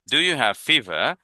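very slow, each word drawn out for learners; teacher modelling English slowly; slow modelled question. Shown as a demonstration. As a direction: spell it out slowly for the class.

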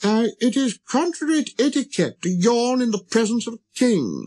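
high, pompous royal reproof; disapproving monarch. Acted. King rebuking the prince for yawning, high and pompous. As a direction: scold him like an affronted king. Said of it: "the monarch said to him".

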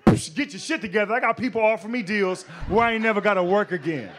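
loud, boastful yell through the door; shouting at girlfriend. Retold or imitated. Storming in on his girlfriend, loud triumphant shouting. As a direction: burst in and bark the news. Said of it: "I kicked down my door".

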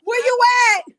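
wailing shout for a missing friend; calling out. Real, not acted. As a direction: holler it after someone, half crying with laughter. Calling after friend who left.

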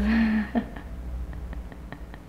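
soft, voiceless bursts of breath; breathless broken laugh. Acted. Mother mourning her children's unseen wedding, broken breathy laugh. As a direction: let broken, airy laughter spill out. Breaks down after wedding lament.

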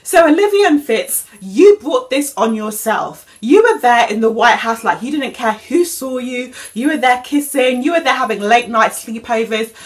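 mock scolding. Real, not acted. Scolding TV characters.

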